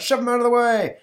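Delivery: high, loud heckler's shout; hostile crowd yell. Acted. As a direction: yell it like someone in an angry mob. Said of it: "says the crowd".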